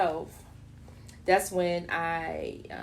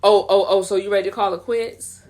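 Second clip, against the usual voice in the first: condescending undertone; 8 dB louder than usual. Retold or imitated. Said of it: "the same undertone of like".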